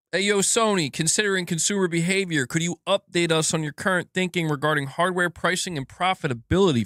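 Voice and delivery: investor question. Acted. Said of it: "Investor question number two. They say".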